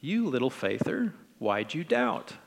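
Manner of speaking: friendly. Acted. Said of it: "let's try to imagine it even again".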